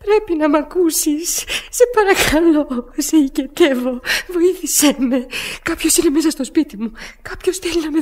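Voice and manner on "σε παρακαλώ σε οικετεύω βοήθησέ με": slow, tearful begging; tearful pleading. Acted. Woman begs the operator for help, slow and tearful. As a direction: plead slowly, close to tears.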